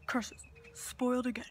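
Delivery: mustache twirling villain. Acted. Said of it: "mustache twirling villain".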